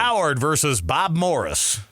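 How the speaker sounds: slow, drawn-out big-game announcer read; mock hype announcer. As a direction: hype up a dull matchup like a promo. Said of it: "Like that".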